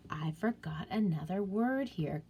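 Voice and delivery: whispered aside to herself. Real, not acted. Teacher whispering a note to herself while editing. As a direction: murmur it under your breath, unvoiced.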